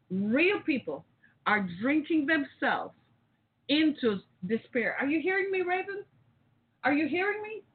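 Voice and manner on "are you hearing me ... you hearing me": pitched up high, pressing the question; urgent plea. Real, not acted. Host pressing co-host Raven on air, urgent and high. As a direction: demand she really hears you.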